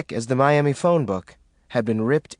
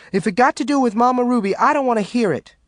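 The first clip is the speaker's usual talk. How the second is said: warning; 10 semitones higher, 3 dB louder, faster than usual. A narrator's reading. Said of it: "Maureen warned".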